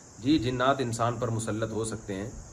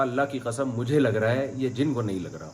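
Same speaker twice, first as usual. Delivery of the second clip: ordinary talk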